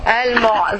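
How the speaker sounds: "Al-mu'" ending on a distinct throat ain; clear final ain. Shown as a demonstration. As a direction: model "Al-mu'" with the ain audible. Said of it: "You see the ain?".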